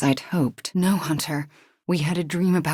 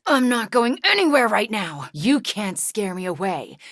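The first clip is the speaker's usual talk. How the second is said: defiant shout; 4 semitones higher than usual. Acted. Refusing to fall in battle, defiant shout.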